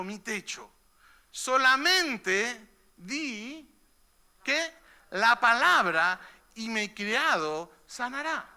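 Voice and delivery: slow, weighty Bible reading; solemn scripture reading. Acted. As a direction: read the verse slowly, with reverence. Reads scripture aloud. (lectura bíblica lenta y solemne)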